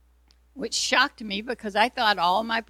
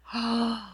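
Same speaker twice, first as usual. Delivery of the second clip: sharp gasp; 4 semitones higher than usual. Real, not acted. Sudden realization in memory.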